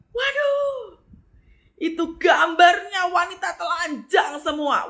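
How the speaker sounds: loud, high shocked outcry, slow; a drawn-out, shouted "Waduh" of disbelief. Real, not acted. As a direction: cry out in scandalised shock. Shocked discovery in story.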